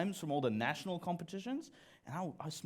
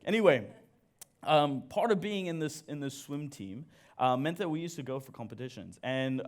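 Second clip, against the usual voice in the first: ordinary talk, nothing marked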